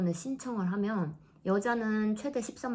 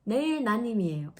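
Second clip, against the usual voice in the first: lightly voiced doctor, calm and matter-of-fact; mild imitation of a doctor delivering bad news; quoting the doctor. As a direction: replay the doctor's flat diagnosis with a touch of mockery. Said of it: "그러셔서".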